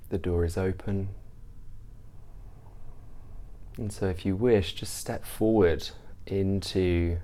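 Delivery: measured meditation guide, long pauses between phrases; guided meditation. Real, not acted. Teacher leading listeners through a mindfulness practice, guided meditation. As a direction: ease listeners into stillness, unhurried and even.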